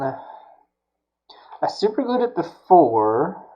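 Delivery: a hushed aside, drawn out; whisper. Real, not acted. Aside while fixing the battery.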